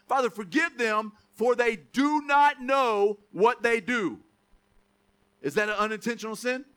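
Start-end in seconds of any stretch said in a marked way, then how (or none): 0.1-4.2 very slow, drawn-out prayer; slow heartfelt plea for forgiveness; slow praying plea. Retold or imitated. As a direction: pray it slowly, stretching each word. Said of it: "he's literally praying for them".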